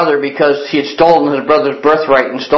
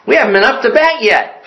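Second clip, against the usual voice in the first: put-on higher, upbeat kid's punchline; lightly imitated hopeful boy; cheerful boy; 6 semitones higher than usual. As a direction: deliver it as an undaunted little ballplayer. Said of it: "the boy was so cheerful and encouraging".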